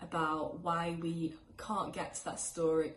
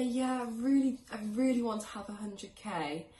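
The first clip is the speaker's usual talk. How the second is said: mock-eager wish, higher and louder at the start; eager declaration; 4 semitones higher, 5 dB louder than usual. Money coach voices someone merely saying they want it, eagerly. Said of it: "You can say".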